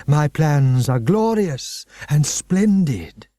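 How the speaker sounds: lightly voiced, slow proud villain; grandiose headmaster. Headmaster boasting of his plans, slow and grand. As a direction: savour the splendour.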